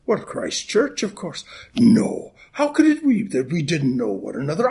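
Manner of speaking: a light Irish brogue held through the greeting and the joke; Irish accent. Acted. Minister greeting the congregation on Saint Patrick's Day, in a light Irish accent. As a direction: lilt it like an Irish great-granddad. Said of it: "now I'll drop the accent".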